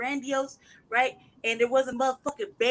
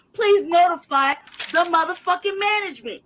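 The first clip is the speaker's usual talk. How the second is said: sarcastic reading of the notice, louder; mock reading; 5 semitones higher, 7 dB louder than usual. Tenant mocking the landlord's letter, sarcastic. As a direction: spit out the landlord's notice in scorn. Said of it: "If you receive the above".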